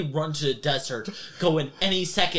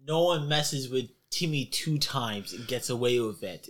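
lightly voiced thug; 4 semitones lower, 5 dB quieter than usual. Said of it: "They go".

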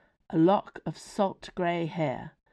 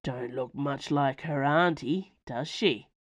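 low rumble; 3 semitones lower than usual. Acted. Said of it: "said a low rumble of a voice".

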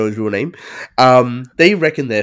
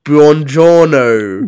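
slow, drawn-out Italian Buongiorno, louder; mock Italian greeting; 7 dB louder, much slower than usual. Friend quoting Hans greeting in Italian, slow mock Italian. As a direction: savor Buongiorno like a proud Italian. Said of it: "riffing out perfect Italian".

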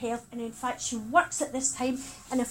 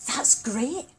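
calm. Retold or imitated. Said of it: "my sister says calmly".

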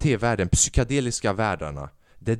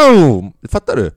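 loud burst of pent-up rage; mock strangling shout; sudden furious yell; 10 dB louder than usual. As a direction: explode on the word.

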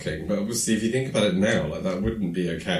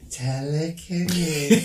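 slow reading; 9 semitones higher than usual. Retold or imitated. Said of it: "she reads it really slowly".

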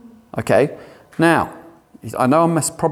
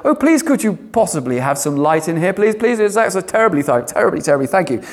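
mock polite asking. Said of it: "permissive kind of nice English kind of way".

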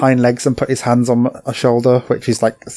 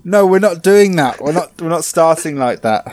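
higher, louder objection; mock protest; 5 semitones higher, 3 dB louder than usual. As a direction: shut down the rude intro. Scolding her own alter ego.

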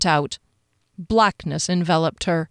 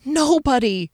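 high, frightened plea; small, anxious appeal; pleading; 6 semitones higher than usual. A narrator's reading. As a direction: plead like a cornered captive. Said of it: "she pleaded".

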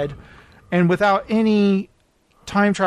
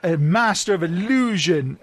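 grand announcement. Acted. Host answers magic show question, grandly announcing. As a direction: stretch it out like a stage-magic billing.

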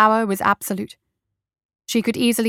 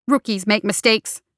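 snapping. Acted. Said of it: "she snapped".

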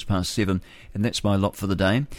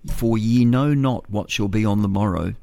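measured Bible reading; scripture reading. Acted. Radio host reads Bible verse to listeners, reverent. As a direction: read the verse reverently, slowly at the end.

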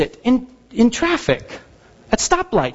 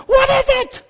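baffled; slower than usual. Retold or imitated. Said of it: "I'd be".

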